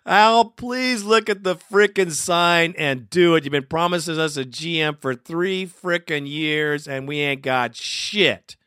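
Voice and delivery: heated plea to the team owner; fed-up fan begging the owner; emotional plea. Real, not acted. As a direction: let the frustration spill out. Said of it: "Sorry, I'm a little emotional".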